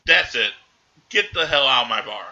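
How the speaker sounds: loud, mildly angry retold order; pissed-off bartender. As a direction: act out a bartender throwing someone out. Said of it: "Nick is getting pissed off".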